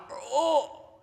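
high, drawn-out groan; pained groan. Retold or imitated. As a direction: groan as if your back just gave out. Imitates back giving out.

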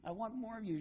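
high, gushing puppy love. Retold or imitated. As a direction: squeal it like a kid smitten with her dog. Girls gushing over the dog.

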